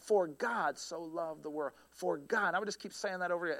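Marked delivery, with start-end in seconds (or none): 0.0-2.5 "For God" weighted, verse drawn out slowly; slow, emphasized repetition. Shown as a demonstration. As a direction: dwell slowly on each word of "For God".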